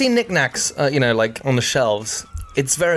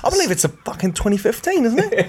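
sommelier tasting notes; 3 semitones higher than usual. Acted. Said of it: "talking like a sommelier".

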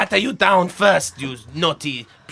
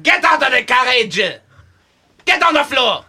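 shouting; 5 semitones higher than usual. Acted. Guard ordering passengers out.

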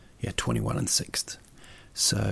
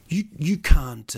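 louder, slower indignant protest; 2 semitones higher, 7 dB louder, slower than usual. Retold or imitated. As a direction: dig in against the cabbie. Arguing with the cabbie.

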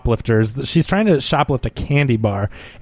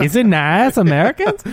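Borat impression; 5 semitones higher than usual. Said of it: "we should just do everything in Borat".

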